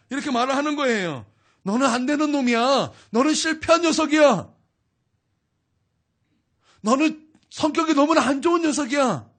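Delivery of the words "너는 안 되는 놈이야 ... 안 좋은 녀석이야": louder, sneering accusation, each line hammered; mock accuser hurling scorn; Satan's taunting voice. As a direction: spit the insults out like the accuser.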